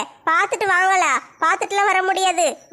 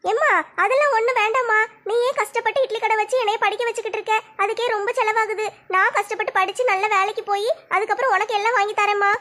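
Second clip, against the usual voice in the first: lightly voiced teenage daughter; a hint of a shy college girl talking to her mother; young daughter; 3 semitones higher than usual. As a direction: modest daughter, lightly played. Daughter refuses gifts.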